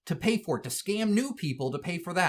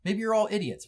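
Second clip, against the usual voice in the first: higher, sing-song mock of the company; 8 semitones higher than usual. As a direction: sneer the excuse in a higher voice. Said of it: "They just said".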